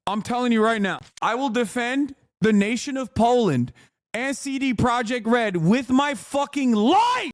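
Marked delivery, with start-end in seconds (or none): 1.2-7.3 rising to a high, slow shout ending in a yell; mock-heroic battle cry; shouted vow. Real, not acted. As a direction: swear it with your whole chest. Fervent vow to defend developer.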